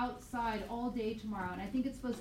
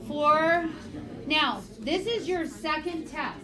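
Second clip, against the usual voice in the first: calling out; 3 semitones higher, 6 dB louder, slower than usual. Real, not acted. Teacher calls class to attention.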